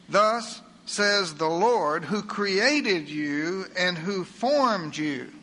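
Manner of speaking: slow, weighty reading of the verse; solemn Scripture reading. Acted. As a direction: let each word of the verse land, very slowly. Reads Scripture slowly.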